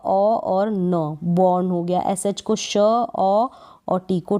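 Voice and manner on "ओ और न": slow spelling. Shown as a demonstration. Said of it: "तो बी को ब".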